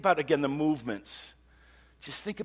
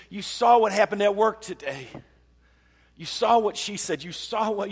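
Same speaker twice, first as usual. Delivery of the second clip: higher, louder, venting at God; frustrated prayer; 5 semitones higher, 3 dB louder than usual. Pretend. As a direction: pour out the frustration, voice raised. Voicing David's frustrated prayer.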